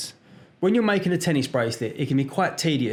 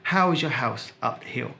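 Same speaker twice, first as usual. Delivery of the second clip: carefully sounded H's, posh telephone manner; posh phone voice; 2 semitones lower than usual. Shown as a demonstration. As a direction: put on a posh phone voice, pronouncing every H. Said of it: "now for my posh phone voice".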